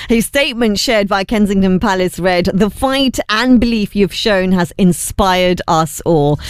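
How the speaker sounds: radio news bulletin delivery; news read. Acted. Presenter reading royal football reaction to listeners, news read. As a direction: read it as a measured newsreader.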